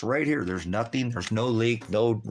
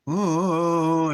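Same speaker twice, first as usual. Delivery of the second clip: high, loud startled oh; 8 semitones higher, 7 dB louder than usual. Retold or imitated. The lady stunned by his rant, startled high oh. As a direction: blurt it out, caught off guard. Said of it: "she was like".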